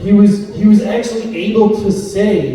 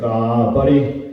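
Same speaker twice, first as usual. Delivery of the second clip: tender sigh; 6 semitones lower, slower than usual. Retold or imitated. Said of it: "I was like".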